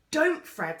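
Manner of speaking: high, loud, urgent plea; alarmed warning. A narrator's reading. Girl begging Fred not to stroke the spider, urgent. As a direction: cry out to stop him.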